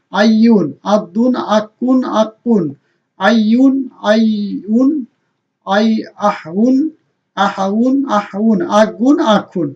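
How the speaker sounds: each syllable like আম্মুন said with a doubled consonant and a final -un; Arabic tanween drill. Shown as a demonstration. Teacher drilling the double damma with students. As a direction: chant আম্মুন, আব্বুন, holding the doubled sound. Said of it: "দুই page দিয়ে আপনারা practice করেন".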